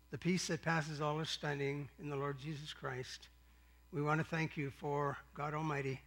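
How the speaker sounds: soft, low, hushed pastoral prayer; quiet prayer. Real, not acted. Pastor praying over the service, soft and reverent. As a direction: pray it gently, almost to yourself.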